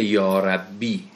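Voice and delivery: یا ربی drawn out slowly, vowels stretched; careful Quranic-style reading; slow recitation. Shown as a demonstration. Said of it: "اینجا چی بوده؟".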